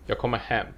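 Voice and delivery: "Jag kommer" rushed through, "hem" carrying the stress. Shown as a demonstration. Teacher demonstrating sentence prosody, first two words unstressed, stress on "hem". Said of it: "The first two words are just kinda rushed through".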